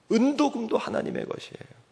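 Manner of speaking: ordinary talk, nothing marked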